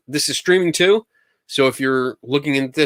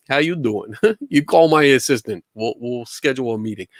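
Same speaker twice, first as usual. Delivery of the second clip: hammed-up New York "how you doing"; New York accent. Joking host offering to schedule a meeting, New York accent. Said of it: "I go into a New York accent".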